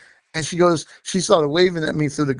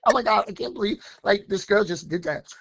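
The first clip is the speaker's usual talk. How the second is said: lightly imitated white-girl accent, higher start, soft finish; Lily sounding white; 4 semitones higher, 4 dB quieter than usual. Friend reacting to what a girl did, mock white-girl accent. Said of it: "she sounded so white".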